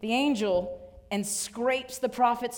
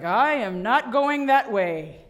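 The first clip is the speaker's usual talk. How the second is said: stubborn donkey; 5 dB louder, slower than usual. Acted. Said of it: "and the donkey's like".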